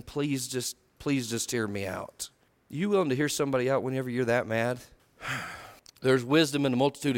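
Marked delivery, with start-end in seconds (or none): 0.0-2.3 soft, low, slowing plea; meek begging. Retold or imitated. Wife begs an angry man to listen, meek plea. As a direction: beg humbly, keeping the voice down. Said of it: "And she begs him".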